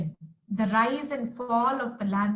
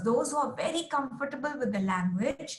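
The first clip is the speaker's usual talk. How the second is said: usual speaking voice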